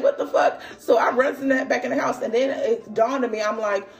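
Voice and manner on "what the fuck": laughing disbelief. Retold or imitated. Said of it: "So I'm like".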